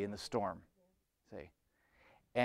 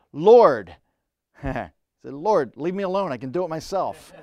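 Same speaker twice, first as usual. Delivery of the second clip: mock proud cry; 4 semitones higher, 13 dB louder than usual. Peter's proud cry, acted.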